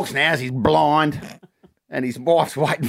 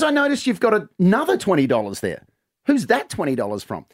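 suspicious wife; 5 semitones higher than usual. Retold or imitated. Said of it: "And she goes".

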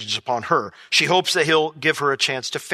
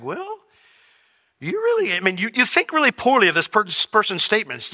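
gentle questioning Lord; 3 semitones higher than usual. Retold or imitated. The Lord gently probing the preacher's anger. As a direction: lead him to see it himself.

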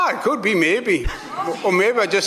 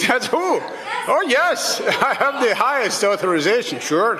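dumb Irish impression; 3 semitones higher than usual. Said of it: "dumb Irish impression".

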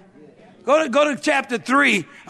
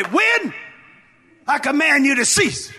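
high, commanding call on the first word; demonstrated shout of command; wind rebuke; 3 semitones higher than usual. Shown as a demonstration. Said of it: "When you rebuke the wind, you just say this".

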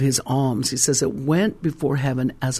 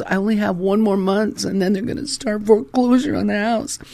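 higher, anxious imitation of a woman; retold panic, pitched up high; panicking wife; 5 semitones higher than usual. Wife tells pastor of coming foreclosure, panicking. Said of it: "She goes".

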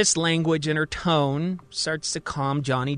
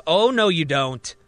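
higher and louder, defiant; defensive; 4 semitones higher, 4 dB louder than usual. Acted. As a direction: refuse them, loud and rising. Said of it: "Johnny suddenly gets defensive".

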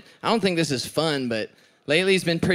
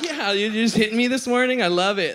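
sarcastic quote; 6 semitones higher than usual. Retold or imitated. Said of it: "I'm like".

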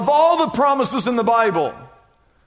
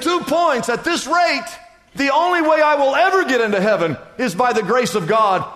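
dismayed; 3 semitones higher than usual. Acted. Man despairs in joke.

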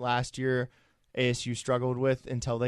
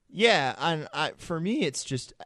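voice crack; 4 semitones higher than usual. Real, not acted. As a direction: voice cracks mid-sentence. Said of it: "that was a really bad voice crack".

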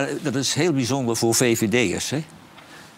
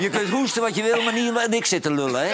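laughing; 9 semitones higher than usual. Real, not acted. Joking about the coughing man.

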